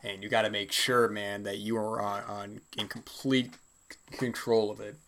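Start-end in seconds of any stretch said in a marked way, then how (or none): 1.6-5.0 slightly raspy dry voice; talking with a dry throat. Real, not acted. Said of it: "my throat's a little dry".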